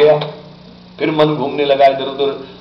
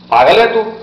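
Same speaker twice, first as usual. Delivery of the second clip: acted outburst, louder and higher; exasperated insult; 8 semitones higher, 5 dB louder than usual. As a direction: throw it out in mock exasperation. Traveller snaps at the mahatma.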